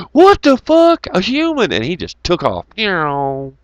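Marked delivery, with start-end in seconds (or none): 0.1-1.7 high shocked voice of a spooked bear; startled bear. Retold or imitated. The old bear on the road, shrieking high in alarm. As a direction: squeak it out like a startled animal.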